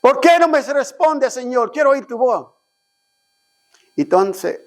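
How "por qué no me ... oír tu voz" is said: retold crying out. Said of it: "le estaba gritando a Dios".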